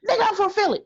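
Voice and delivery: high, quick Philly voice; asked where the British accent went, a high Philly retort; dropping the British accent. Retold or imitated. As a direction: snap back to a Philly voice. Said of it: "what happened to your British accent".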